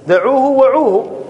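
دعوه وعوه said slowly with وعوه stretched; slow demo of دعوه وعوه; slow drawn reading. Shown as a demonstration. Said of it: "وعو ما يقول".

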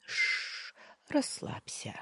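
soft whispered hush; calm her in a whisper; hushed soothing murmur. A narrator's reading. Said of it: "проурчал он".

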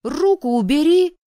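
put-on high, very loud boyish yelp; shrieked angry order; yelling. A narrator's reading. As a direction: holler it in a squabble. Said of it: "завопил паренёк".

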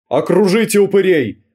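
high chasing shout; yelling to surround them; крик погони. A narrator's reading. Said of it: "крики за нашими спинами". (Крики погони за спинами)

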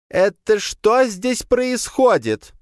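very high, slow, loud outcry; astonished demand. A narrator's reading. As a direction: burst in shocked. Commandant bursting in on shouting.

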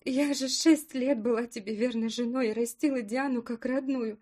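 rising to a loud, high tearful cry; tearful outburst. Acted. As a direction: grief building into shouting. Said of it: "Эмоции взяли верх, подбородок задрожал". (слёзы переходят в крик)

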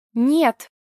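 loud, high cry of no; losing control, shouting; shouted no. Acted. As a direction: cut him off with a shout. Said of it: "выкрикнула я".

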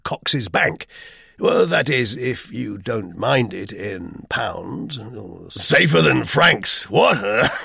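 clipped English officer, awkward and pleading; an old soldier hating to beg for money; gruff, uneasy British major; embarrassed Major. Acted. Major offers a cheque.

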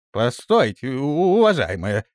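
loud, stammering panicked plea; frightened excuse. Acted. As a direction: beg her to let go. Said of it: "оправдывался Бартоломей".

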